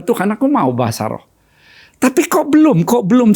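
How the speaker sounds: pleading, rising up on belum; half-acted yearning plea to God; a touch of retold desperation; retold longing prayer. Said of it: "ada satu kerinduan".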